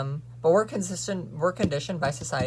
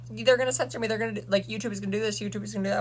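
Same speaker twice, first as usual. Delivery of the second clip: mocking whiny YouTubers; 6 semitones higher, faster than usual. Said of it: "YouTubers, like".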